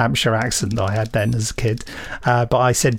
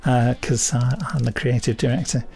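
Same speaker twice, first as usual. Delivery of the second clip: put-on light northern English accent, chatty and pleased with himself; a mild Lancashire-Yorkshire twang throughout; generalised northern accent. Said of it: "This has been my generalised northern accent".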